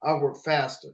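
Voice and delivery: quiet, deferential yes-man; mock servile slave. Parodying a slave answering the master, mock-servile and soft. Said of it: "the slave mentality".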